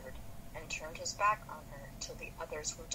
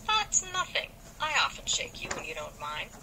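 soothing; 4 dB louder than usual. Acted. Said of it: "said Joe soothingly".

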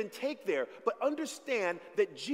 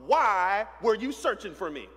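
put-on young Jesus; 6 dB louder than usual. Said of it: "He says to his mama".

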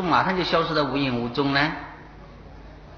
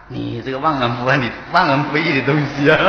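mock scolding; 5 dB louder than usual. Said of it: "在他面前骂他".

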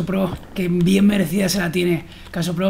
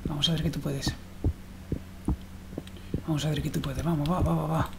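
soft, low murmured coaxing; quiet self-encouragement; 5 semitones lower, 12 dB quieter than usual. Real, not acted. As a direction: coax yourself under your breath.

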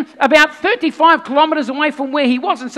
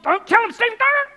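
rising, higher anxious plea; pleading friend; 7 semitones higher than usual. Retold or imitated. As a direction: beg him to stop. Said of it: "Stephen, Stephen".

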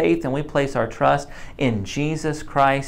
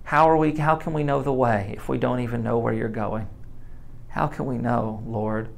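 desperate cry; 5 dB quieter than usual. Acted. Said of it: "you just hear the cry of someone who so desperately loves Jesus".

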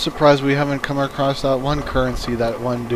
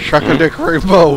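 yelled taunt; 6 semitones higher, 8 dB louder than usual. Acted.

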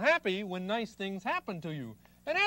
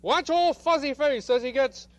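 higher, louder, slow announcer build-up; showman announcing; 6 semitones higher, 4 dB louder than usual. Acted. Host to audience, slow showy announcer voice. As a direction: hype the big moment to the kids.

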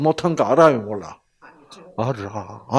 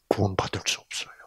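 whispered; 7 semitones lower, 11 dB quieter, faster than usual. Real, not acted. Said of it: "repeated phrase".

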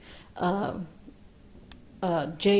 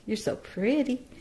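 sweet praise; 4 semitones higher than usual. Real, not acted. Owner gently praising her baby bird, cooing. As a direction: coo it gently to the chick.

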